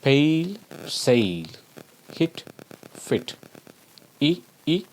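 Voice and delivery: "Pale", "sail", "hit", "fit" each said singly, stretched; sounding out vowels. Shown as a demonstration. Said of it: "See the example here".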